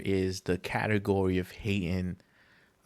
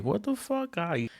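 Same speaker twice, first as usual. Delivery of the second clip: much higher, outraged rant; exasperated disbelief; 11 semitones higher than usual. Retold or imitated. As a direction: act out the baffled outrage. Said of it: "you're like".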